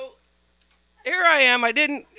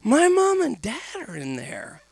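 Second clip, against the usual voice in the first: put-on panicked teen; 8 semitones higher, slower than usual. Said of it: "He's like".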